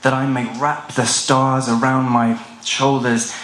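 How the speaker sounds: deliberate, solemn verse with long pauses; poem recitation. Acted. Poet recites a heavy, personal poem about fearing dawn, solemn recitation. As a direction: declaim each line and let it settle.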